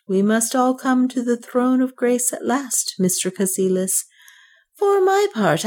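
high, pleading and pious; penitent old banker. A narrator's reading. Dying banker confesses his sin to Cassilis, high and pleading. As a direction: confess with fawning humility. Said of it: "the wheedling, unreal tones".

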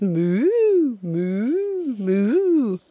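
long, swooping musical moos; crooned moos, gliding up and down; melodious cow voice. A narrator's reading. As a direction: sing it like a dreamy cow. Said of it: "singing in a melodious cow-like voice".

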